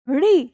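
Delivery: री sounded from the palate; retroflex demonstration. Shown as a demonstration. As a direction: model री with tongue curled back. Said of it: "मूर्धा से करना है". (री को जीभ मोड़कर मूर्धा से बोलें)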